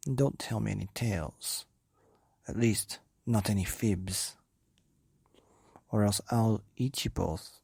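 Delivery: threatening Gruffalo wife; stern mother. Acted. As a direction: demand the truth from husband and child. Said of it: "wife's stern demand".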